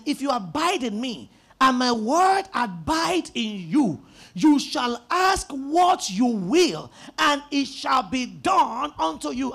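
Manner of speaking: slow, swelling scripture quote; preached scripture. Acted. Preacher reciting Jesus' words to congregation, slow and swelling. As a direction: proclaim the verse deliberately.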